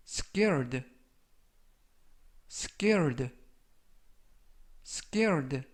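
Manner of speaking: careful vocabulary drill, one word at a time; measured teacher's demonstration with long gaps; slow model reading. Shown as a demonstration. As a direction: read it out slowly for learners to repeat. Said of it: "천천히 세 번씩 읽어드리고요".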